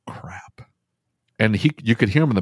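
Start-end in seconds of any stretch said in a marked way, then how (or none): 0.1-0.6 a barely voiced, deflated "Crap."; hushed crap. Dealer realizing he sold the wrong part, muttered under his breath. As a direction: let "Crap." slip out under your breath, almost no voice.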